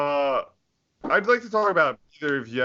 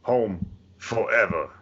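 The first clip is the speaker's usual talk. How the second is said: Nicolas Cage impression. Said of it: "Nicolas Cage ... Con Air".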